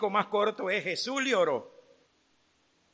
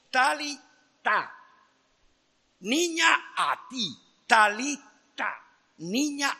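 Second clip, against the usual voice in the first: commanding call; 6 semitones higher, 4 dB louder, slower than usual. Retold or imitated. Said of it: "repeating the command".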